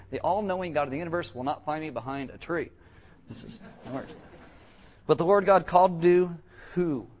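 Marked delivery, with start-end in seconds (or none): 5.1-7.1 called out loud to the room; loud question. Real, not acted. Preacher quizzing the congregation, loud and high. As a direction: throw the question out to the whole church.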